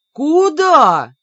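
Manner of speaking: high, loud demand; loud, high challenge; challenging shout. A narrator's reading. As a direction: call sharply after someone escaping. Бер перехватывает убегающую героиню.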